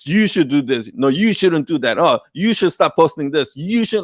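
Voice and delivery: lecturing, talking down; condescending. Shown as a demonstration. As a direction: preach at the listener. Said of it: "it sounds condescending because I'm like".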